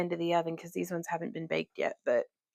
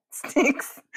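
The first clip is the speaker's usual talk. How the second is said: sticks said higher and aloud; voiced higher; 5 semitones higher than usual. Shown as a demonstration. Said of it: "repeats word, voiced higher".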